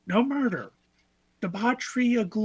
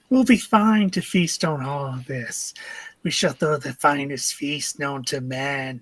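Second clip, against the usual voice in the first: booming pompous declaration; grand proclamation; 3 semitones lower, 5 dB louder than usual. Acted. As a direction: proclaim it like a reveler king. Grandiose feast-planning character.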